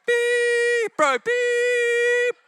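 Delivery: high, loud beeping over the caller; loud, high bleep-riddled phone rant; censored caller. Retold or imitated. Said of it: "It's like".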